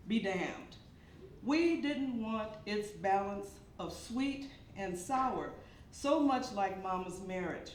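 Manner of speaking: measured poem reading with deliberate pauses; poetry recitation. Acted. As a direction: recite line by line, weighting key words.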